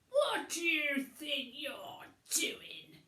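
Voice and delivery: slow, loud, strained cry; shout. Acted. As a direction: call it out hard at the intruder. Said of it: "shouted Billy".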